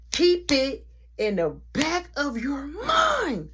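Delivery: slow breathy whispered echo; slow spooky whispered reminder; eerie whisper. Acted.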